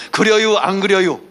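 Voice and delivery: slow, drawn-out Chungcheong lilt on 그래요 안 그래요; Chungcheong dialect. Shown as a demonstration. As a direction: ask it lazily, Chungcheong style. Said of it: "충청도 버전으로". (느릿한 충청도 사투리로)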